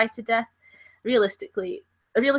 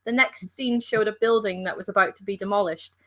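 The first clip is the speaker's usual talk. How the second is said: attempted Liverpool accent. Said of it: "You sound just like my ex".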